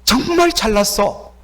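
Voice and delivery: mild demonstrated sarcasm; mocking. Shown as a demonstration. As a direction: draw out the compliment as a jeer. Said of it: "조롱의 말이죠".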